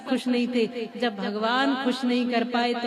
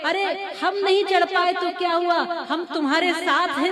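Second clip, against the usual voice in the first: higher-pitched, rallying mock cheers; imitated encouragement; 4 semitones higher than usual. Deaf frog imagines friends cheering him up, rousing imitation. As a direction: cheer the climber on, acted out. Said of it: "कितना प्रोत्साहित कर रहे हैं मुझे".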